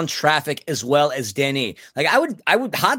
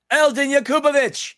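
higher, hyped-up shout of the name; excited exclamation; 9 semitones higher than usual. Real, not acted. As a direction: cheer Eldin Yakupovic like a fan favourite. Repeats name as a cheer.

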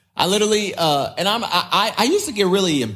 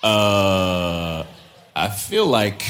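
hesitant blind man; 6 semitones lower, much slower than usual. Retold or imitated.

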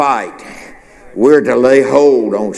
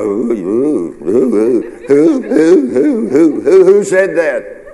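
high, swooping owl-like hoots of confusion; mock bewildered hooting; 6 semitones higher, slower than usual. Acts out confusion over whose voice.

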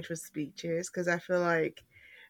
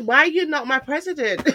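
loud, high, laughing gush; 8 semitones higher, 7 dB louder than usual. Real, not acted. Gushing laughing fangirl.

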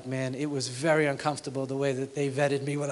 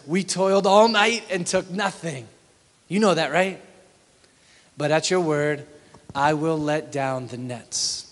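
weary protest; 5 dB louder than usual. Acted. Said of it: "Simon answered".

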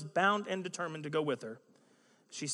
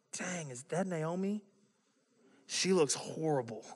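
mock harsh tone. Town women react to Naomi's return, mock harsh and catty. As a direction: drag it out as a mildly appalled gossip. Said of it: "It was a very harsh tone".

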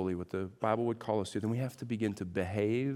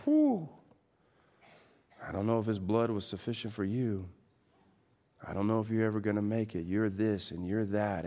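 enemy whispering. Acted. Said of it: "the enemy's whispering to you".

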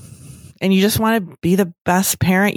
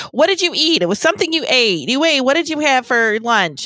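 higher, insistent mom voice; imitating mom; 5 semitones higher than usual. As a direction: nag like a mother grilling her daughter. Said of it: "And my mom saying".

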